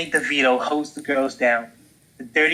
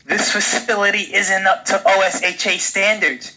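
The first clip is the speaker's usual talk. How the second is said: screeching; 6 semitones higher than usual. Acted. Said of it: "screeched the dolphin".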